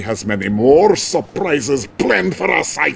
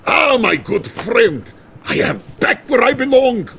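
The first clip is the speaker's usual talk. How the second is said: hearty greeting; 8 semitones higher than usual. Acted. Premier returns, greets general.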